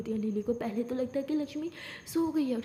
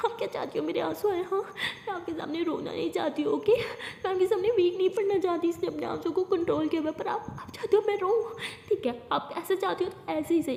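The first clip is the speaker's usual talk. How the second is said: tag; 5 semitones higher than usual. Pretend. Fake-crying girl protests, acted.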